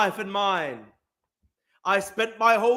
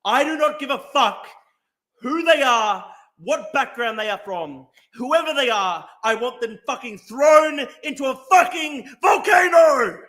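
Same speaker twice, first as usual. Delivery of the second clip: loud, building furious yell; furious shout; 4 dB louder than usual. Real, not acted. Angry streamer demanding thieves thrown into volcano. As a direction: hammer each phrase in rage.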